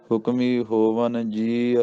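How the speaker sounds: slow chant of ਹੁਕਮੀ ਹੋਵਨ, then a rest; ਹੋਵਨ ਤੇ ਵਿਸਰਾਮ; pause after ਹੋਵਨ. Shown as a demonstration. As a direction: recite slowly and stop at ਹੋਵਨ. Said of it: "ਇੱਥੇ ਵਿਸਰਾਮ".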